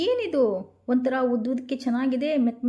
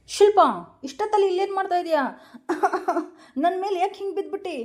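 startled laughing; 5 semitones higher, faster than usual. Acted. Woken mother-in-law startled to find Shilpa on her, laughing. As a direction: jolt awake and laugh in surprise.

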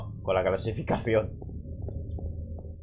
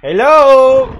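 silly English hello; 10 semitones higher, 10 dB louder than usual. Pretend. Greeting the monkey again.

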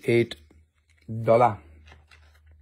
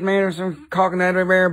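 higher, fast laid-back dude voice; put-on dude voice; 5 semitones higher, much faster than usual. Shown as a demonstration. Seller slipping into a joke voice, fast and pitched up. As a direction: rattle it off in a hammed-up chill-guy voice. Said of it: "When I talk like this".

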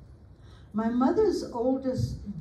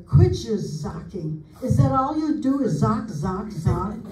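mild mock scolding; 5 dB louder than usual. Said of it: "She often would say".

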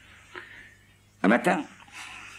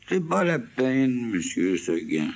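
aiguë et lente, boudeuse; chèvre qui refuse; 9 semitones higher, slower than usual. Acted. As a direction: refuser en traînant. (la chèvre refuse, aiguë et lente)

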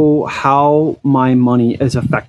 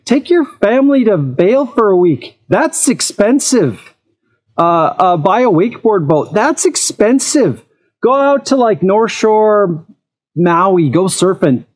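higher, emphatic comeback; retorting; 5 semitones higher than usual. Retold or imitated. Answering critics of e-foiling cost, higher and emphatic. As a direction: rattle off the pricier options. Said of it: "I'm like".

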